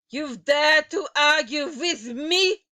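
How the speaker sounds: loud, high furious scream. A narrator's reading. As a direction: scream it in outrage. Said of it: "screamed the Grand High Witch".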